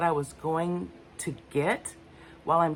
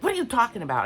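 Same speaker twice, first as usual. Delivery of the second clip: higher, louder irritated snap, retold; lashing out; 9 semitones higher, 6 dB louder, much faster than usual. Cut off mid-thought by husband, irritated high snap. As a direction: bite back at him, pitch up and loud. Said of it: "I lashed out at him".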